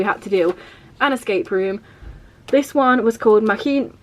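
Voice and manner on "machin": Machin- in an odd unplaced foreign accent, slightly raised; weird accent. Real, not acted. Naming the escape room to viewers, odd accent. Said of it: "I said that in a weird accent".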